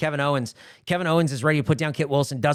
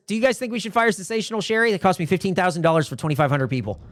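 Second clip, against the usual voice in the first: higher, quick complaining voice; Trish Stratus; 4 semitones higher than usual. Acted. Promoter asking about firing a wrestler, quick and higher. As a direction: rattle off the complaint in a lightly acted voice. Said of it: "Trish Stratus comes out and she says".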